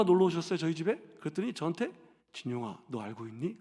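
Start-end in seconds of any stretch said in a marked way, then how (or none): 2.3-3.6 aunt's hushed secret. Retold or imitated. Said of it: "그러시는 거예요".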